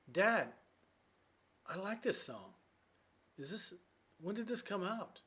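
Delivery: put-on excited teen son. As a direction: play the thrilled kid asking about the song. Son voiced in a teaching skit.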